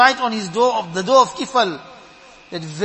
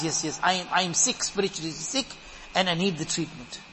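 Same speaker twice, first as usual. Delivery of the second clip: low, soft inner confession; quiet admission; 5 semitones lower, 7 dB quieter than usual. Acted. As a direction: admit it quietly, as if to yourself. Voicing a sick soul's admission.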